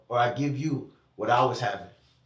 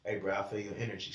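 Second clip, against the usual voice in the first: low, much softer mumbled friend voice; a low, hushed, half-mumbled bro impression; imitating his friend; 7 semitones lower, 11 dB quieter, faster than usual. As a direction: drop low and mumble it like a laid-back buddy. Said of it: "Every time I talk to him".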